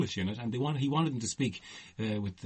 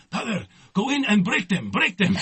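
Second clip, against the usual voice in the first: hammed-up commanding director, much higher and louder; director's order; 11 semitones higher, 9 dB louder than usual. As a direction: bark it like a theatrical director ordering you in. Retold director giving an order.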